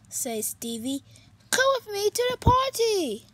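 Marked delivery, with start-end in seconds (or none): 1.5-3.3 higher and fast; eager invite. Acted. Stevie inviting Pete, eager and quick. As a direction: pull him along happily.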